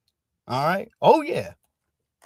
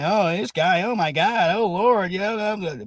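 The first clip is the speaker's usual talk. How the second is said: mock flustered white person; 2 semitones higher than usual. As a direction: ham up a nervous person dodging the subject. Mocking flustered white folks.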